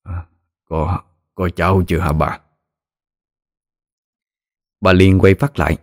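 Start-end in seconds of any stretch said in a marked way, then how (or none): 0.0-2.4 put-on a faint, frail old man asking; barely voicing the question; weak old voice. A narrator's reading. Ailing husband asks wife, weak and faint. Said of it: "cái giọng yếu ớt vô cùng".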